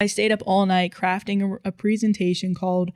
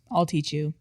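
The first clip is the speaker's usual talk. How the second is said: lower, softly understated deadpan reply; 3 semitones lower, 4 dB quieter than usual. Acted. Narrator answering boyfriend who won't iron, deadpan. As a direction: state it dryly, pitched a touch down. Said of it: "I replied in a deadpan voice".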